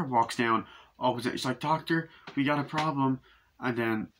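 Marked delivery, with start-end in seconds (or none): 1.6-3.2 raised, urgent mock call; lightly acted nurse, higher voice; imitated calling out. Nurse calls to doctor, retold.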